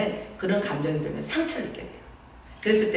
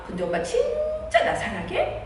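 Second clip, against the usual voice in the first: put-on much higher, slow, laughing whine of a child; whiny child; slower than usual. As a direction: whine it up high like a needy little girl. Child asks third time. (훨씬 높고 느리게 조르는 아이)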